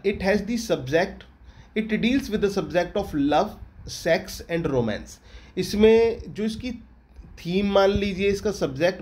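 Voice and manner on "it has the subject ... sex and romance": very slow, deliberate rereading; teacher rereading the corrected line slowly; very slow dictation. Shown as a demonstration. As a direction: drag each word out for copying. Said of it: "rereading corrected line".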